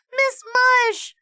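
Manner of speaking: high loud desperate shout; loud high cry across the room. Acted. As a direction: scream her name for help. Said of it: "shouted Allison".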